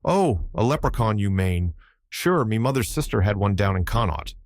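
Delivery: put-on old Irish seaman, lively brogue; Irish sailor accent. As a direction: tell it in a thick Irish brogue. Button tells fairy tale.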